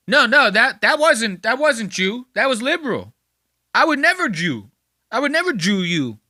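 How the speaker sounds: high, loud, whiny protest; high-pitched mock denial; weaseling whiny excuse. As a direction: plead your innocence in a squeaky put-on voice. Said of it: "Look at him try to weasel his way out".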